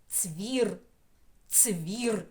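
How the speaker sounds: Цвір said slowly, each sound drawn out; drawn-out syllable. Shown as a demonstration. Teacher sounding out a syllable for children, slow. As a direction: stretch Цвір so every sound is heard. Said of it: "перший склад".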